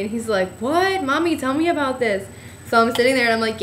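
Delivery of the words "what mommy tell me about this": high, startled what; a retold jolt of surprise; lightly voiced surprised bartender.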